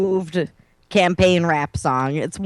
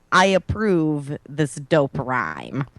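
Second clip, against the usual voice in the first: sarcastic; 3 semitones lower, 3 dB quieter, slower than usual. Retold or imitated. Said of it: "I'm detecting, like, a little bit of sarcasm".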